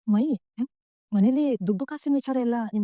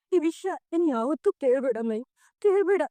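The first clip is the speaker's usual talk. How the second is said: tearful plea; 4 semitones higher than usual. Acted. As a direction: beg him through tears. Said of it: "ನೀನ್ ಅಳ್ಬೇಡ, please". (ಅಳುತ್ತಾ ಬೇಡಿಕೊಳ್ಳುವಂತೆ)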